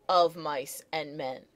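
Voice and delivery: "of mice and men" stressed on MICE and MEN; slow, measured "of MICE and MEN"; iambic stress. Shown as a demonstration. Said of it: "An iamb like".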